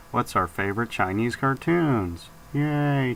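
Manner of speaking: flat, droning monotone voice. Pretend. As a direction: drone it in a dead monotone. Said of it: "You're really bringing the monotone on".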